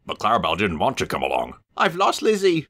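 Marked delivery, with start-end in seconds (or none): 1.8-2.7 high, mildly tearful coach voice; a touch of a sob in it; lightly acted weepy wail; mock sobbing. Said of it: "she sobbed".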